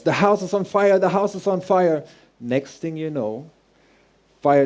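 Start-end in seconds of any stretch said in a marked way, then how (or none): 0.0-1.0 put-on a boy crying out in alarm, pitched way up; mock scream. A boy shouts to the neighbors, a high alarmed mock yell. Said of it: "I'm screaming to the neighbors". 1.0-2.0 put-on a boy crying out in alarm, pitched way up; mock scream. A boy shouts to the neighbors, a high alarmed mock yell. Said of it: "I'm screaming to the neighbors".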